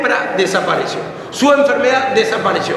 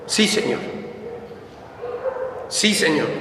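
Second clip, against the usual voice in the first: hushed reply; 3 semitones lower, 9 dB quieter than usual. Acted. Blind men answer Jesus.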